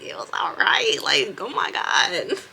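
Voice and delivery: whispered, drawn-out exasperation; hushed, fed-up aside; exasperated whisper. Retold or imitated. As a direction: brush off the nosy questions under your breath. Annoyed self at nosy coworker.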